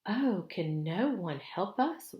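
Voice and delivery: high, slow, despairing cry; wailing plea. Acted. Lucy wailing to the Beavers for help. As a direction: beg for any hope. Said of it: "wailed Lucy".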